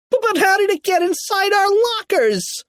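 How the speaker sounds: high, stammering question; baffled protest. A narrator's reading. Kipper questioning uncle about lockers, high baffled stammer. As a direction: squeak it out in bewilderment.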